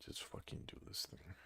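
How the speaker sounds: fast, breathless whisper at the screen; frustrated whisper. Real, not acted. Gamer pleading with a stubborn tool, whispered frustration. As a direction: hiss it under your breath. Muttering at the software.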